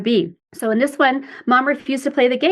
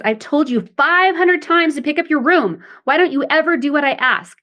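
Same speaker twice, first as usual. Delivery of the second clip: higher, scolding mother; a scolding mother, mildly raised; critical parent; 5 semitones higher than usual. Shown as a demonstration. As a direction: nag at the child's messy room. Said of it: "That sounds critical parent".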